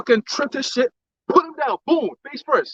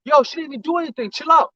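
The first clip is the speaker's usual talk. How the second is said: retold protest; 6 semitones higher than usual. Retells man objecting to the arrest.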